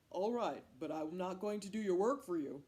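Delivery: loud, firm, self-important voice; grudging man. Acted. Man agreeing to hunt with Cat, loud and grudging. Man answers Cat's request.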